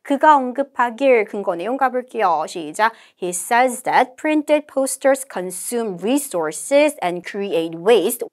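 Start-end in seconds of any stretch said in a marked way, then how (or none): 3.2-8.3 slow, measured English recitation; model read-aloud. Shown as a demonstration. Teacher models the conversation summary, slow deliberate reading. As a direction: read it out slowly, phrase by phrase.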